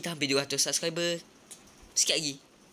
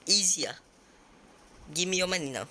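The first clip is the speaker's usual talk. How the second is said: gloating; 6 semitones higher than usual. Real, not acted. Gloating after winning.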